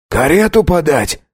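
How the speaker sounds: eager servant. Acted. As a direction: servant answering the count, eager. Servant answers.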